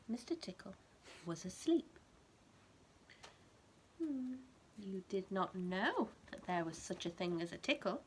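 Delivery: lively bedtime story reading, rising on the key words; reading to a child. A narrator's reading. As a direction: read it like a picture book to a toddler.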